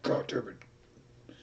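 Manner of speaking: slow whispered curse; a defeated whispered curse; muttered curse. Retold or imitated. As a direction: whisper it under your breath, slowly. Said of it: "I was like".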